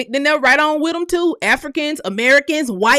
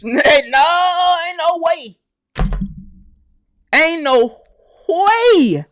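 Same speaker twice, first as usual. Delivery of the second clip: laughing disbelief; 2 semitones higher, much slower than usual. Real, not acted. Disbelief at church money.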